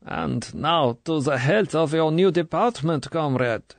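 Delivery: lightly voiced, cheerful Russian toast; merry toast. A narrator's reading. Colonel toasting Tatiana, merry and falsely warm. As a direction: raise the glass merrily.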